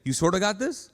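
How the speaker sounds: tentative, doubtful encouragement; unsure. Shown as a demonstration. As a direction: hedge it weakly. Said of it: "what do you say?".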